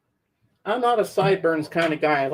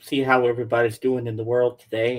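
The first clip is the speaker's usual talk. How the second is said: Impression of a famous singer. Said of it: "I'm a ghost".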